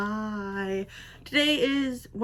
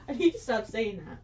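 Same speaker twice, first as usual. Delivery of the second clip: laughing; 4 dB quieter than usual. Real, not acted. Laughing at her own repetition.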